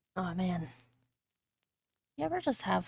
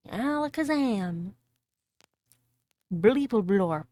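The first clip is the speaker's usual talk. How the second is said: mock magic incantation; 7 dB louder, slower than usual. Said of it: "mock magic words".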